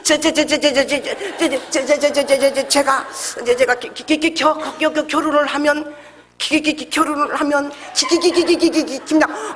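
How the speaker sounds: laughing, repeated stuck syllables; mock stammer. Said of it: "얼마나 말을 더듬는지요".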